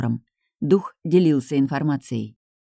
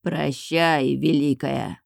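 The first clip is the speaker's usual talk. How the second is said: hoarse croak; much slower than usual. Acted. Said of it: "прохрипел Везель".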